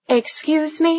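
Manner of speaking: sharp shocked "excuse me"; taken aback and affronted; indignant surprise. A narrator's reading. Shocked at his challenge.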